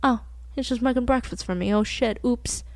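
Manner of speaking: imitating a casual shrug-off; softly tossed off, as if a trivial mistake; mock-offhand, understated oops; nonchalant. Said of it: "he said it so nonchalantly".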